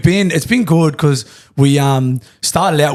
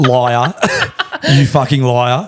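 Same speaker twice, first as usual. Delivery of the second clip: laughing; much slower than usual. Real, not acted. Laughing at landlord's lie.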